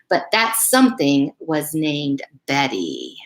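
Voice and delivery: put-on reading a picture book aloud to kids; gentle storyteller read; story reading. Reads book jacket to children.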